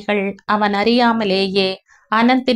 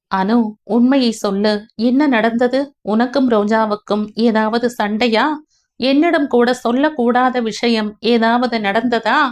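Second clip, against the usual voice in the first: pleading Vijay; 3 semitones higher than usual. Acted. Elder brother presses younger brother for the truth, urgent.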